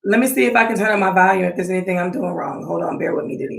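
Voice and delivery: distant speakerphone voice. Real, not acted. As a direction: sound far away over a speakerphone. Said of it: "sounds like she's on a speakerphone, like she's far away".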